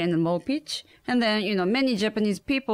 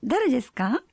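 higher, quick polite phone talk; 8 semitones higher, faster than usual. Shown as a demonstration. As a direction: keep it bright and polite. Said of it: "do your phone voice".

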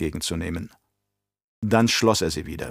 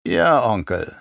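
pointedly submissive; slower than usual. Acted. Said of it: "betont unterwürfig".

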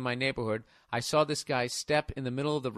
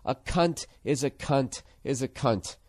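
mock-profound quote; slower than usual. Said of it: "Charles M. Schultz was trying to say".

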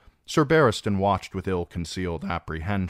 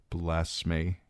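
bitter; 4 dB quieter than usual. Acted. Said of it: "Danny thought bitterly".

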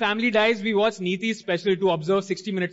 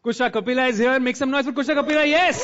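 hype host; 4 semitones higher than usual. Real, not acted. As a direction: pump up the audience, calling out. Host hyping the crowd.

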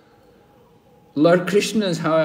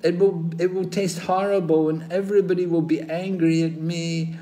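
mock anxious; 4 semitones higher, 5 dB louder than usual. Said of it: "I thought".

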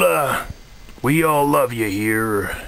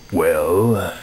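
a lightly put-on Kermit the Frog voice; a mild Kermit impression, close to his own voice; new Kermit voice. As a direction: do Kermit, but not quite the usual one. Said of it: "this is my new voice".

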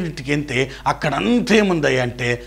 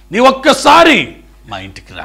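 higher, louder cry of a desperate father; loud plea; 5 semitones higher, 5 dB louder than usual. Retold or imitated. Father begging Jesus to come home, raised pleading cry. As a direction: beg the Lord to come just once.

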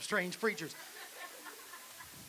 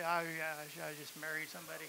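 softer, lower stammering husband; defeated husband mumble; 5 semitones lower, 9 dB quieter than usual. Retold or imitated. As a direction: mutter it like a beaten man. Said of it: "trying to say".

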